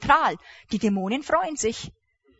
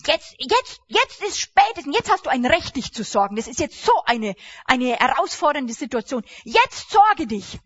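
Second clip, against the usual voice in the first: tempting voice; 3 semitones higher, 4 dB louder than usual. Acted. Push like a tempter at an open door.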